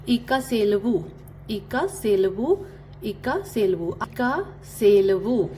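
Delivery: इका सेलवु repeated, the last one slowed; teaching repetition. Shown as a demonstration. Teacher drills another Telugu goodbye, ending slow. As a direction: say इका सेलवु clearly, then slowly. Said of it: "एक और तरह से good bye कहते हैं".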